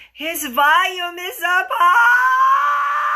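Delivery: slow, high shout breaking toward laughter; shouted punchline. Real, not acted. Host reveals the phone volume to listeners, loud laughing shout. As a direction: crack up as you yell the last word.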